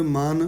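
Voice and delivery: ਮਨ said lightly and loosely; softly pronounced. Shown as a demonstration. Teacher models scripture reading, ਮਨ softly pronounced. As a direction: let ਮਨ fall gently, no pressing. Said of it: "ਮਨ ਪੋਲਾ ਜਿਹਾ ਪੜ੍ਹਨਾ ਹੈ".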